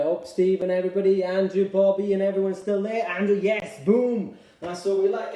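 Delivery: loud, rousing shout-out; calling out encouragement. Real, not acted. Fitness coach hailing class members by name, loud and rousing. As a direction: call out loudly to keep the class going.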